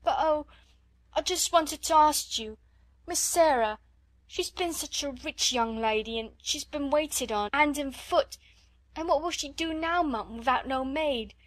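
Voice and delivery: scullery maid begging to serve Sarah; tearful begging. A narrator's reading.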